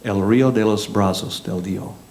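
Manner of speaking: "El Rio de los Brazos del Dio" said as the Spanish name, with Spanish vowels; "Brazos" said as Spanish BRAH-sohs, not the English short form; Spanish pronunciation. Shown as a demonstration. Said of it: "which is this".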